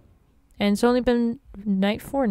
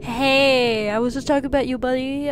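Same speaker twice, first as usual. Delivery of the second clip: mock sweet talk; 3 semitones higher than usual. Sweet-talking the robot chicken.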